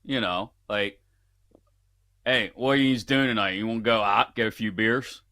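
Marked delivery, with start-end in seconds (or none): 2.2-5.2 casual Pittsburgh accent, words smashed together; slurred-together Pittsburgh talk; Yinzer accent. Shown as a demonstration. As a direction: invite a buddy out in Pittsburghese. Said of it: "That's a Yinzer accent".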